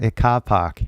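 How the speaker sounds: "car park" without r's, Australian style; Australian non-rhotic "car park"; Australian accent. Shown as a demonstration. Teacher testing an Australian example word, Australian accent. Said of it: "maybe they say car just like in England".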